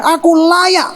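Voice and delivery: stubborn acted anger, voiced high; Jonah defiant. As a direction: insist you have every right to be angry. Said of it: "Lalu Yunus ngomong sama dia".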